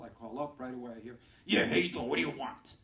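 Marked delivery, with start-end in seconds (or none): 1.5-2.7 loud, gruff New Yorker picking up the phone; rough New York guy. Retold or imitated. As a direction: bark it like a tough New York brother. Rough New York family member answers.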